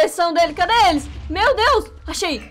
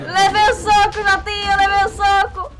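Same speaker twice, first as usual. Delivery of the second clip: loud pained yelp; hit hard crying out; 5 semitones higher, 3 dB louder, slower than usual. Acted. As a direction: cry out after being punched.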